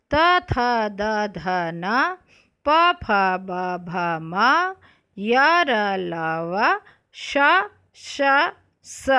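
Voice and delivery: letters read out slowly, one by one; slow consonant recitation. Shown as a demonstration. Teacher to class, reading the consonants out slowly. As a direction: spell the alphabet slowly for young pupils. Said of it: "दोबारा व्यंजन वर्ण पढ़ रही हूँ".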